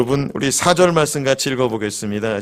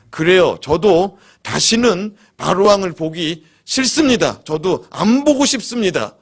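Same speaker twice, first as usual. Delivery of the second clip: indignant Moses; 4 semitones higher than usual. Retold or imitated. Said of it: "모세가 뭐라고 말합니까?".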